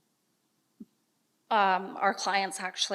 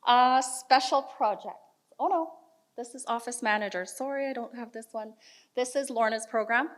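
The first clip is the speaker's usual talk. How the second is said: stage fright; 3 semitones higher than usual. Real, not acted. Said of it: "Sorry, I'm a bit nervous".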